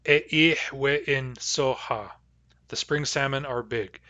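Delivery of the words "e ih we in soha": E ih we in soha, spoken slowly and carefully; E ih we in soha with the hearsay ending we in; Nuu-chah-nulth phrase. Shown as a demonstration. Teacher modelling E ih we in soha for the class. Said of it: "the way I put that was".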